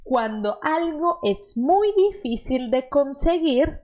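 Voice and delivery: slow, clear dictation; slow model reading. Shown as a demonstration. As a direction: read each word slowly for the learner. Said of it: "Las últimas dos".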